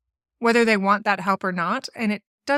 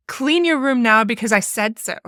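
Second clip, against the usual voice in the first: bossy demand; 2 semitones higher, 3 dB louder than usual. Retold or imitated. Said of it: "this very bossy, sassy kind of".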